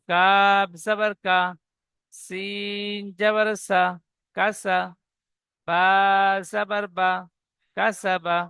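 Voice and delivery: কাব জবর কা stretched slowly, each part apart; slow spelled-out syllables. Shown as a demonstration. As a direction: model the spelling slowly for students. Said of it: "ঠিক এমন ভাবে বানান করব". (শিক্ষকের মতো ধীরে বানান)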